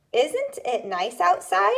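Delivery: bright example question. Shown as a demonstration. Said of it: "So you could say".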